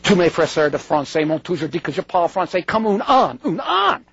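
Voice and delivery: speaking French in his own accent; self-mocking French. Shown as a demonstration. Lecturer joking about his French accent, self-mocking French. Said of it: "so that's my French".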